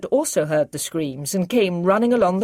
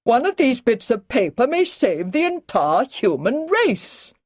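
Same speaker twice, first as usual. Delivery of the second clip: higher, slower, strained urgency; touch of hysteria; 7 semitones higher than usual. Acted. Brigadier urging the others at the worktop, a touch of hysteria. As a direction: let a hint of panic crack through the command. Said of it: "a touch of hysteria in his voice now".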